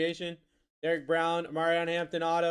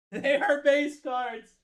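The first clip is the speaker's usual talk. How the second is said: high, loud, slow insistence; incredulous high-pitched emphasis; exasperated disbelief; 10 semitones higher, 5 dB louder, much slower than usual. Real, not acted. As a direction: stretch it out in a high, strained protest. Incredulous repeat about base cards.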